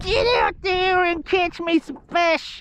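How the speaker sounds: very high, silly, dumb-sounding put-on falsetto. Retelling what his missus told him, in a dumb put-on wife voice. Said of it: "I don't know why I'm doing these dumb voices".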